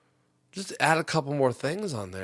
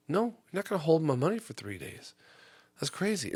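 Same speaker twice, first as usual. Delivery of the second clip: incredulous retort. Retold or imitated. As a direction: protest the three-day hold in disbelief. Arguing with bank guy.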